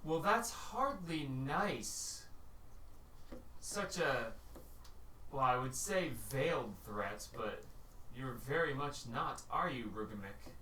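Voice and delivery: slow, echoing otherworldly voice; unearthly voice. Acted. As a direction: speak like a voice from nowhere. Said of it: "you hear an echoing voice".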